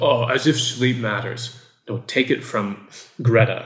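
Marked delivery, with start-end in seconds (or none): 0.0-1.6 put-on dismissive, scoffing, can't-be-bothered teenager voice. Imitating a teenager listening who dismisses advice: imitating an eye-rolling teenager. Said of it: "rolling their eyes like".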